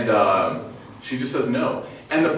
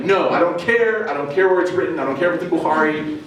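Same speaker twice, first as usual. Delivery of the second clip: mock defiance; 2 semitones higher than usual. Woman hypothetically refusing the Prophet's word, with mock defiance. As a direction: play up an indignant "no". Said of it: "she's not like".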